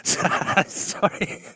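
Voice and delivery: helpless laughter through the words; laughing at oneself. Real, not acted. Botches an accent attempt and apologises to co-host, laughing. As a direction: try to apologise while giggling. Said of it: "I'm laughing at myself".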